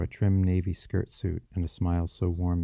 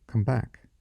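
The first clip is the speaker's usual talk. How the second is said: higher-pitched beckoning with a smile; gentle call; 6 semitones higher, 3 dB louder than usual. A narrator's reading. Young woman to straying boy, gentle call back. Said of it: "called with a gentle smile".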